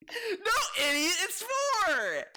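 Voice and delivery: high, loud, screeching mock yell; wild unhinged ranting. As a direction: shriek it like a smug know-it-all. Imitating the smug corrector.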